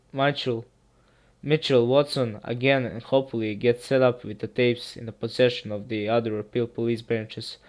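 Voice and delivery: steady, low storytelling read; creepypasta narration. Acted. Narrator reading a creepy story to viewers, measured and grave. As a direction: narrate the horror tale evenly, a touch grave.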